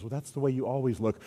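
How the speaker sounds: softly imitating the wife, a touch sweet; a quiet, sweet wifely reply; sweetly. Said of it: "sweetly goes".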